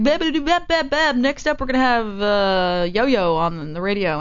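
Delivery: lightly voiced radio host. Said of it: "he was just like".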